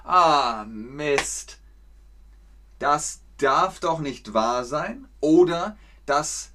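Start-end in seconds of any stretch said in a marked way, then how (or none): 0.0-5.1 slow, exasperated disbelief; frustrated exclamation. Shown as a demonstration. Teacher acts out missing the bus, frustrated. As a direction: groan at a missed bus. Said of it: "Wenn man den Bus verpasst hat".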